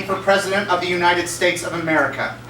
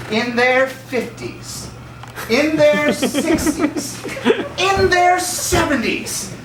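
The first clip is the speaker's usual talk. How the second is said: slow rising build; 8 semitones higher, much slower than usual. Acted. Mocking presidents' ages, rising build.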